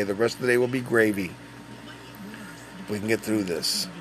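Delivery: soft, settled encouragement; calm reassurance. Retold or imitated. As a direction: quietly reassure a nervous helper. Reassuring the scared tech.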